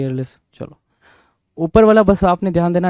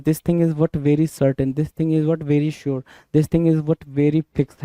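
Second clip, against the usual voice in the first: deliberately slow model sentences; slow example sentences; much slower than usual. Shown as a demonstration. Teacher giving example English sentences to class, slowly. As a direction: lay each word out slowly for students. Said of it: "कहते हैं ना कि".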